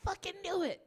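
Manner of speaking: high, loud acted outburst of being proved right; mock vindication. Comic acts out reaction to the arrest, loud mock vindication. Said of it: "and you're like".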